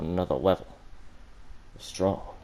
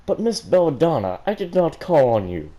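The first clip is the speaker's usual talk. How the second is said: stern teacher; 7 semitones higher, 6 dB louder than usual. Acted. Teacher reprimand, high, loud.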